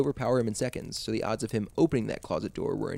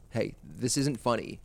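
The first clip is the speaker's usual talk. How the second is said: firmly; slower than usual. Acted. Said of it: "Ginny said firmly".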